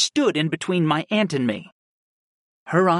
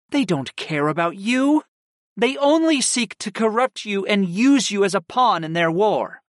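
lightly raised, a hint of a stern aunt; measured older woman, lightly voiced; aunt Kristen voiced; 7 semitones higher, 3 dB louder than usual. A narrator's reading. Aunt explaining to her nephew, lightly voiced warning.

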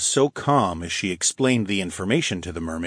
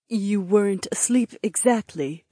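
gentle; 12 semitones higher than usual. Acted. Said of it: "Aliona answered gently".

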